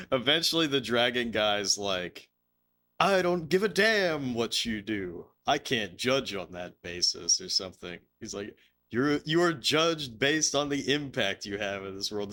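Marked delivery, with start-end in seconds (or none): 3.0-7.4 super-serious dragon. Retold or imitated. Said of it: "like, super serious". 8.9-12.3 lightly voiced earnest dragon, slightly raised pitch; serious dragon. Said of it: "This guy's being serious".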